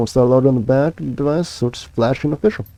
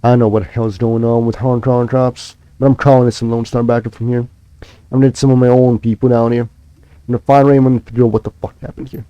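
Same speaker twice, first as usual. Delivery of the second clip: hoarse voice. Acted. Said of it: "his voice is seedy and hoarse".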